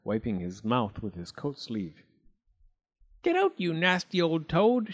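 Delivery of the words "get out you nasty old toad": higher, lightly raised bee voice; a hint of an angry bumblebee; understated shriek; mild mock shriek. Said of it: "shrieked Babbity Bumble".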